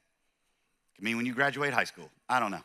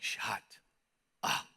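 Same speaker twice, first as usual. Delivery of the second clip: wife's dry retort; 6 semitones lower, 9 dB quieter than usual. Retold or imitated. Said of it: "Robin comes out with her coffee".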